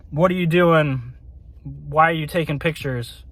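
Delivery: imitating a stern, serious questioner; mock interrogation, kept understated; serious questioning. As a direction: question them seriously, as if demanding an answer. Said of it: "very serious questioning tone".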